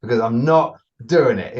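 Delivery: high, loud exasperated get out; exasperated shout. Retold or imitated. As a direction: throw her out, fed up and laughing. Frustrated trainer ordering dog out.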